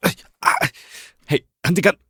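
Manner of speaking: high laughing pleas to stop. Acted. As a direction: beg for mercy through laughter. Begging pinching to stop. (memohon ampun sambil tertawa)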